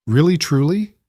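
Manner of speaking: put-on hopeful child. A narrator's reading.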